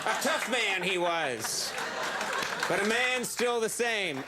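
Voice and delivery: put-on slow, grave old-timer storytelling; Norm's cadence. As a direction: drawl it out slowly like a grizzled sage. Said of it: "now I'm thinking in Norm's cadence".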